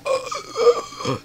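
high, quiet strained gasp; imitated sick gasp. Player shows how bad the cold was, mock gasping. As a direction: mimic a throat seizing up with a cold. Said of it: "my throat is like".

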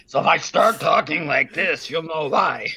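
rough, hoarse voice from smoke; smoke-hoarse throat. Real, not acted. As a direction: talk through a sore, hoarse throat. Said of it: "you guys have been sending us lots of smoke".

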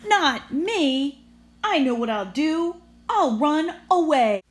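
high, loud determined bus; decide to flee, fired up; defiant resolve. Acted. Busby defiant.

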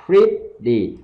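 PRETTY with short I, then long E. Shown as a demonstration. Teacher drills pretty for learners, short I then long E. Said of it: "short I và âm long E đằng sau".

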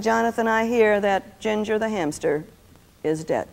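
solemn news, dropping low on the last words; understated mock-mournful announcement; deep and sorrowful. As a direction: break sad news gravely, pausing before the end. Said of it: "I said it as deeply and sorrowfully".

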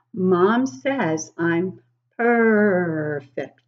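a hint of a proud pup bragging; baby hyena voice. Reading to children as Kai the hyena, lightly voiced.

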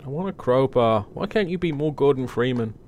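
posh voice. Pretend. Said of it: "in my best and poshest voice".

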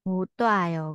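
못 와요 run together with a t sound; linked sounds. Shown as a demonstration. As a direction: link 못 into 와요 through a t sound. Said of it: "nối âm lên thành chữ tờ".

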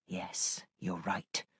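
very soft, low concession; subdued agreement. A narrator's reading. Missus Grose conceding to the governess, subdued. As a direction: agree under the breath, pitched low.

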